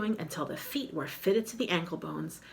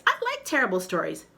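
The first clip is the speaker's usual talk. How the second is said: begging; 3 semitones higher, 4 dB louder, faster than usual. Acted. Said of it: "I begged".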